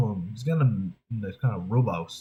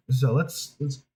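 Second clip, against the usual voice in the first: ordinary talk, nothing marked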